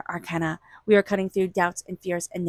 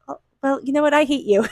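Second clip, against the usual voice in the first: playful mock resentment, higher-pitched; teasing; 5 semitones higher than usual. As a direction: tease someone you love. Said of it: "most loving, caring, teasing way".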